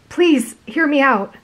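slow pleading; begging. A narrator's reading. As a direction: beg to be heard. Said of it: "you begged".

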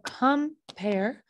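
"compare" slowly as com, pare; split into syllables. Shown as a demonstration. Teacher showing where syllables divide, "compare" in two slow beats. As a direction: break "compare" after "com". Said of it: "So the syllable's right there".

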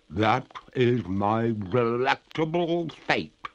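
slow, high ghostly lady; water ghost. Acted. Ghost tells the master her fate, slow and eerie. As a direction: draw the words out eerily.

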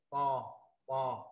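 "to" with the throat slightly arched and widened; rounded throat. Shown as a demonstration. Teacher demonstrating an Arabic letter, throat-rounded "to". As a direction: open up the throat on "to". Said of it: "hơi uống vòng họng của mình chút xíu".

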